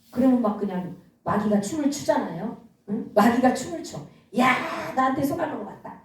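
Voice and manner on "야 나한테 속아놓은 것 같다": lightly acted devil crowing over a victim; gloating devil. Preacher voices the devil pleased with his fiery arrow, mildly gloating. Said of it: "마귀가 좋아가지고 막 떼춤을 추는 거예요".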